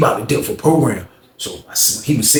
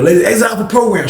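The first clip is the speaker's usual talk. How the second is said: program announcement; 8 semitones higher than usual. Retold or imitated. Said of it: "So he's standing by the door".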